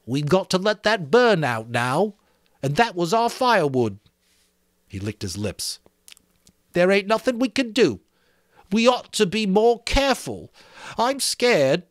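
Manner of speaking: high, loud, anxious plea; scared Piggy. A narrator's reading. Piggy to the boys, frightened. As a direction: fret about the firewood, frightened.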